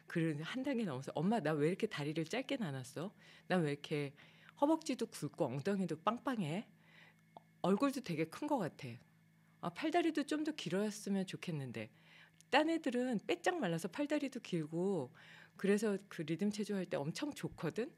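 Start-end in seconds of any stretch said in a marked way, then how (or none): 1.1-11.9 put-on a child's petulant complaint; whiny child complaining to mom. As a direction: whine to your mother like a frustrated young gymnast. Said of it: "제가 막 속으로 화를 내고".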